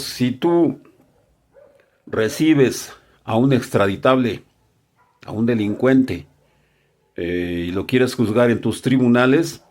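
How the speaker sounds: measured, deliberate imagined warning; spelling it out. Pretend. Senate addressing the United States about extradition, spelling it out. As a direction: lay down the terms plainly, pausing between clauses. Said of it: "le van a decir clarito".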